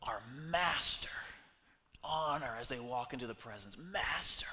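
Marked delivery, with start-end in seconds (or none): 0.0-1.1 whispered plea to the master; hushed plea. Acted. Lepers pleading to Jesus, hushed and reverent. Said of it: "they cried out in a loud voice". 3.8-4.5 breathy whispered address; whispered reverence. Acted. Lepers honoring Jesus, a reverent whisper.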